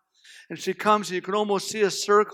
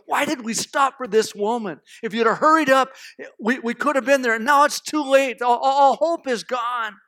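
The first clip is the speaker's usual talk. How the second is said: raised voice, building louder; acted reproachful despair; 3 semitones higher, 3 dB louder than usual. Jairus learns he is too late, reproachful and despairing. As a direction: lament the delay with rising reproach.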